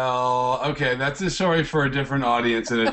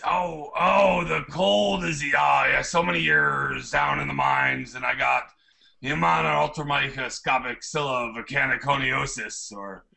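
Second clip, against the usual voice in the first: miner's voice. Acted. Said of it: "in your miner's voice".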